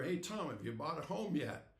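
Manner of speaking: upbeat, lifted hail to a colleague; chipper greeting. Retold or imitated. Insurance salesman greets Tom on another visit, chipper. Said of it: "chipper as ever".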